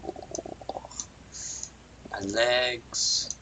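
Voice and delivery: hushed, breathy ooh; soft wondering whisper. Acted. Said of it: "He's like".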